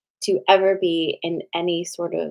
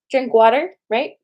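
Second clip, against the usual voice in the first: sing-song reminder; 6 semitones higher, 6 dB louder than usual. Real, not acted. Sing-song parting advice.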